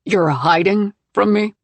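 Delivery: loud, slow disbelief; disbelieving and angry; husband stunned to find her hiding; incredulous. Acted. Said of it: "He sounds incredulous".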